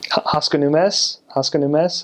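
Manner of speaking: Armenian question in an American accent; bad American accent. Shown as a demonstration. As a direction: ask it with flattened American vowels. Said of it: "So that was bad".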